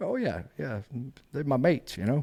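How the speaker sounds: put-on thick English accent.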